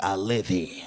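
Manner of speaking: low, quiet bum voice; subdued bum answer. Acted. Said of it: "This bum is like".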